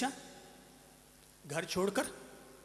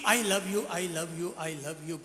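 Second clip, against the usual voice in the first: soft fading echo; 5 semitones lower, 6 dB quieter, much slower than usual. Acted. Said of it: "जंगल में वापस गूंज हुई".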